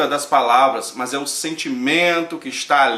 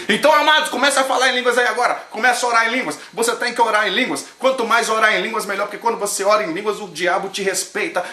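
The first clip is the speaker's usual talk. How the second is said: imitating a preacher; 5 semitones higher, faster than usual. Mocking a pastor urging the church to pray in tongues, hammed-up preaching. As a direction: whip the crowd up like a showy pastor. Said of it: "E ele falou assim".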